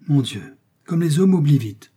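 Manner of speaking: an exasperated cry to heaven; wife-like reproach to Porthos, cried out high and loud; exclaiming. A narrator's reading. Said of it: "s'écria la procureuse".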